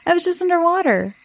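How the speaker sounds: half-hearted shout of a teasing insult; mild shout. A narrator's reading. Boy was just underwater, mildly shouted protest. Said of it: "Levi shouted".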